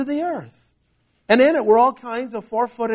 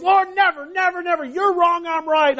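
higher, insistent protest; protesting Peter; 5 semitones higher than usual. Acted. Peter protesting to the Lord, raised and insistent. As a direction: Peter swears he'll never deny him, pitched up.

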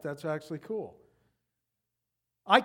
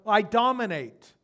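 megalomaniac rant; 7 dB louder than usual. Pretend. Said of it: "could be translated".

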